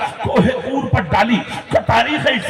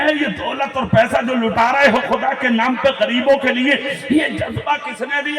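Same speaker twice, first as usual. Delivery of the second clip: raised, driving sermon voice; full-force preaching. Real, not acted. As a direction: preach it out to a responding crowd. Preacher rousing a crowd. (پرجوش خطیبانہ انداز)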